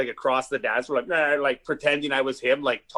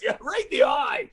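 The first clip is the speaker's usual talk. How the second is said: shout. Real, not acted. Reacting to clip.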